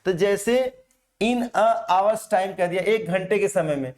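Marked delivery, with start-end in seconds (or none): 1.2-2.6 in a hour's time, said slowly with h; hour wrongly said with h sound as hawar. Shown as a demonstration. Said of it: "ये वास्तव में हावर नहीं है".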